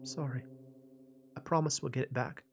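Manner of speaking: soft, trembling apology; trembling whisper. Acted. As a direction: whisper it, voice shaking. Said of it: "in a trembling voice, she whispered".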